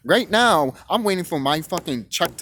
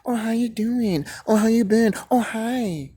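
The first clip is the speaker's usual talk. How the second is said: high, sugary fake greeting; mock overfriendly; 4 semitones higher, slower than usual. People suddenly being nice to the truth-teller, mock overfriendly. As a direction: coo it in mockery of fake niceness. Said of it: "they wanna be all gutty to you".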